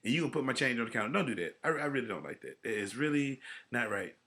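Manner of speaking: worked-up complaint; carried away. Real, not acted. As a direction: get carried away venting about a pet peeve. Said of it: "I got carried away".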